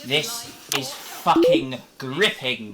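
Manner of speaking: sarcastic. Acted. Deadpan slow sarcasm.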